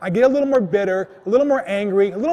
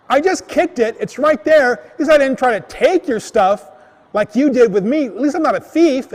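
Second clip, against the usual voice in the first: higher-pitched, heated self-defence; indignant retort; 4 semitones higher, 3 dB louder than usual. Retold or imitated. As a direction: argue back, retelling a quarrel. Retold quarrel, defending himself to thief.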